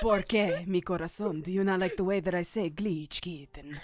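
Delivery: low, suave Spanish lover voice; passionate Spanish voice. Acted. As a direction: purr it like a lovesick Latin charmer. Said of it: "I'm literally doing a voice".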